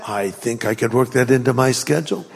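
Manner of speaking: low, dry, amused delivery; deadpan understatement. Acted. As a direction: play it dry and casual. Mother voiced, deadpan joke.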